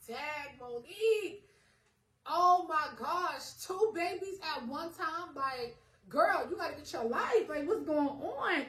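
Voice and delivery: high, slow tearful wail to herself; crying. Retold or imitated. Pregnant teen crying to herself over twins, tearful and high. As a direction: cry it out in overwhelmed panic. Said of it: "I was crying".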